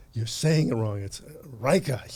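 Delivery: lightly imitated Chinese accent; imitating a heavy Chinese accent. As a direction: correct him in a mock heavy Chinese accent. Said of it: "in a, you know, a heavy accent".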